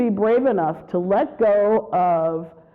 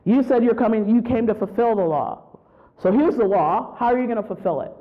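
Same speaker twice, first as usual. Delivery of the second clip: challenging; 3 semitones higher than usual. Retold or imitated. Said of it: "Throwing things back at him".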